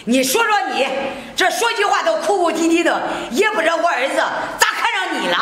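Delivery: scornful nagging, pushing hard; harsh scolding. Acted. Mother-in-law berates the crying daughter-in-law, harsh scolding.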